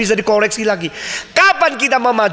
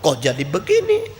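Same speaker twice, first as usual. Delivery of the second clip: dumbfounded murmur; 4 semitones lower than usual. Retold or imitated. Preacher recalling his own shock, a low dazed murmur. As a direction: say it to yourself, gaping. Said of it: "Saya menjadi melongo".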